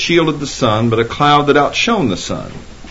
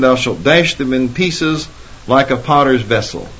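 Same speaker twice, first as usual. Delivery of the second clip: scripture reading. Acted. Preacher reading the psalm to the congregation, mildly declamatory. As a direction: read it out as a proclamation.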